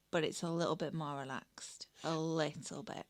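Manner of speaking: low, whispered aside. Real, not acted. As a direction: drop to a conspiratorial whisper. Playful aside about relaxed ceremony.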